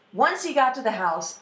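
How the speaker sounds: ordinary delivery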